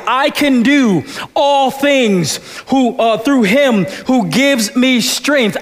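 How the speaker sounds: slow, with "do" leaned on and lifted; stress on DO. Shown as a demonstration. Pastor showing the church a stress on "do". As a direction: preach it with weight on "do". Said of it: "how you can emphasize every word".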